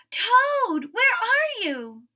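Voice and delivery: high loud call into the dark. Acted. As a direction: search the house calling. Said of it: "called Frog".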